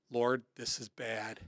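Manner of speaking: hushed prayer. Retold or imitated. Praying silently in a crisis.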